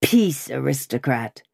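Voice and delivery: gruff patriot, voice kept contained; growling red cap. A narrator's reading. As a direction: growl an order at the aristocrat. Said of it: "growled a red cap".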